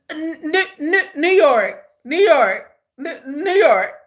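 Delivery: amused, stuttering disbelief on the place name; laughing disbelief. Retold or imitated. Reacting to someone hearing a New York accent, laughing disbelief. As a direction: stammer it out through laughter.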